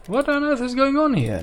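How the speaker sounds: can't believe what he's seeing; exasperated disbelief. Real, not acted. Baffled by a town earning nothing.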